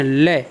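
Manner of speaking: लय with the L held on the tongue; demonstrated L sound. Shown as a demonstration. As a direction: sound out लय, lingering on its first consonant. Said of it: "इस लय का उच्चारण करते हैं". (ल पर रुककर लय का उच्चारण)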